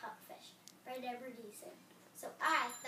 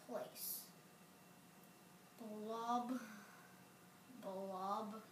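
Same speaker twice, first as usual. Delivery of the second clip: gloomy pout fish; 3 semitones lower, 5 dB quieter than usual. Acted. Fish answers glumly.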